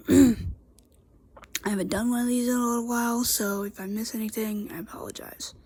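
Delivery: congested, stuffy nose voice; talking through a blocked nose. Real, not acted. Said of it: "I'm kinda congested".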